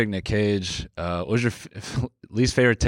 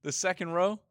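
much higher, softer shocked voice; 10 semitones higher, 5 dB quieter than usual. Real, not acted. Stunned by his friend's photo. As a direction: recoil at the picture in disbelief.

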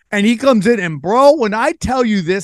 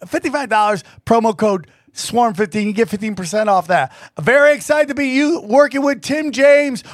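sponsor read; 3 semitones higher than usual. Acted. Host reading affiliate ads to listeners, upbeat ad read. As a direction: pitch the sponsors like a salesman.

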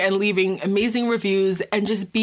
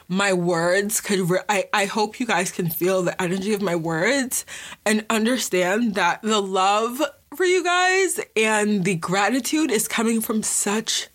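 holding back tears. Real, not acted. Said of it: "I'm trying so hard not to cry".

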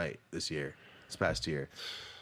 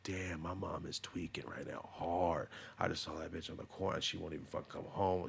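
hushed inner voice; 5 semitones lower, 10 dB quieter than usual. Retold or imitated. Viewer whispering to themself about their mom. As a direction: mutter it under your breath like a secret worry. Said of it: "seventy-five of you just are looking at yourself like".

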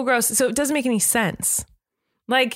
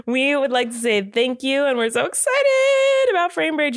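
gushing sponsor thanks; 5 semitones higher than usual. Pretend. Gushing thanks opening the ad read.

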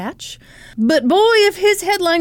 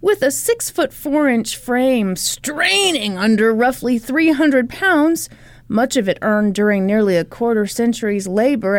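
article reading. A narrator's reading. Here is how his article begins.

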